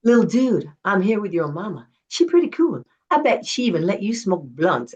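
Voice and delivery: lightly voiced rapper recording a message for her son; rapper impression. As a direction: tease the kid, easy and cool. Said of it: "and he goes".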